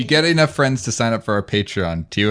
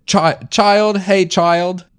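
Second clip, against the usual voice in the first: much higher, eager fussy voice; character voice; 4 semitones higher, 3 dB louder than usual. Acted. Asking the big guy and the child for help, eager and high. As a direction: lift it high and coax them along.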